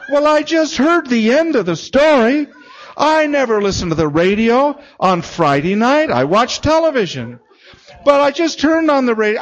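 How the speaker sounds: high, loud, agitated retelling; imitated overwrought outpouring. Older woman telling the caller what she heard, overwrought and imitated. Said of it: "through her tears".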